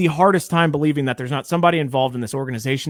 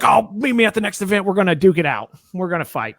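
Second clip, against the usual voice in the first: hammed-up fighting talk, pitched a bit high; mock someone spoiling for a fight; mock tough-guy challenge; 5 semitones higher than usual. Mocks online tough guys picking fights.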